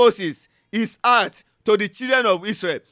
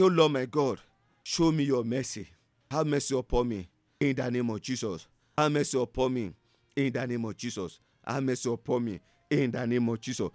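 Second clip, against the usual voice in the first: much lower, much softer murmured prayer; hushed prayer; 9 semitones lower, 9 dB quieter than usual. Acted. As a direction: pray in a low hush. Quiet prayer after teaching.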